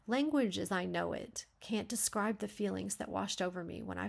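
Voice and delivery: measured memoir narration; composed read-aloud voice; narrative reading. A narrator's reading. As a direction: read the draft aloud as even, unhurried storytelling. Reads a memoir draft aloud.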